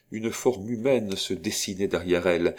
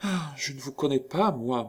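higher-pitched, lost and distraught; bewildered murmur; 7 semitones higher than usual. A narrator's reading. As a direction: murmur as if losing your bearings. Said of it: "murmura-t-elle avec une sorte d'égarement". (murmure égaré)

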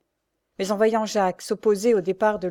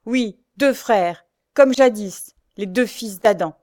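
slow, louder, emphatic riposte; defiant retort; 6 dB louder, slower than usual. Acted. Pierre pushing his mother away, defiant retort. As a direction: hurl the words back deliberately. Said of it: "Pierre la repoussa en ripostant".

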